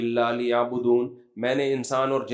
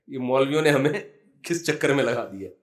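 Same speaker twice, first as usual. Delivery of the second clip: laughing mockery; 2 semitones lower than usual. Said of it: "وہ ہنسنے لگے افطاری میں".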